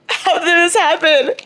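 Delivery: high, loud squeal; disbelieving shriek. Real, not acted. Fan shocked at loving the heirs, high squeal. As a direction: wail it in outraged disbelief.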